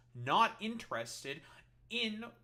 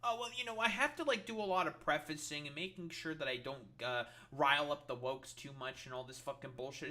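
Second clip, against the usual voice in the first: mocking sniveling hedger. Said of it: "motherfuckers doing, like".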